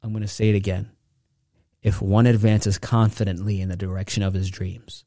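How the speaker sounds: ordinary talk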